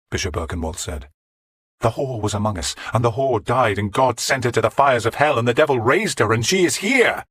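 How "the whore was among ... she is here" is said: building from steady to high and loud; mounting insistence; forceful. Acted. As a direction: press harder with each clause. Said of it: "Godwin said forcibly".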